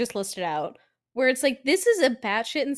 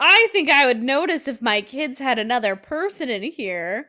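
mock Ted; 5 dB louder than usual. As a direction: ham up an oblivious dad. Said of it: "Ted swaggers up and he's like".

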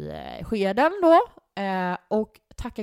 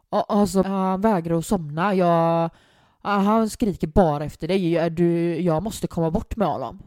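louder mock-stressed caller; put-on dark voice; 6 dB louder than usual. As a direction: play the fed-up parent on the phone, louder. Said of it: "drar ju på en så jävla mörk röst".

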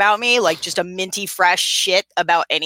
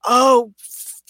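much higher, panicky mock fluster; flustered apology; 9 semitones higher, 4 dB louder than usual. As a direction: caught off guard, blurt out the sorry. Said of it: "And I'm just like".

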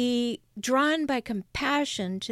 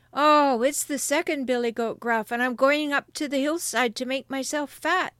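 slightly raised billy goat voice; middle goat voice; 4 semitones higher, 4 dB louder than usual. Acted. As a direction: lightly voice the second, less small goat. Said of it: "who hadn't such a small voice".

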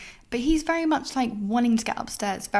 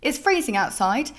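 indignant complaint; 4 semitones higher than usual. Retold or imitated. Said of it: "and says".

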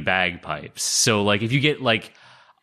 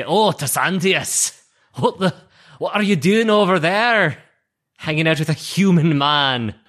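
higher-pitched mock parental scolding; disapproving parent; 6 semitones higher, 3 dB louder than usual. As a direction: scold your child like a scandalized parent. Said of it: "My parents just say".

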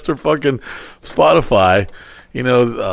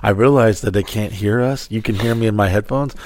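retold whisper; 4 semitones lower, 6 dB quieter than usual. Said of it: "Even I whispered into the mic".

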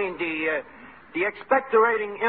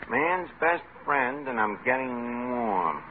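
slow, softer, pondering; slow musing; 6 semitones lower, 4 dB quieter, much slower than usual. Acted. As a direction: mull it over slowly. Pondering again.

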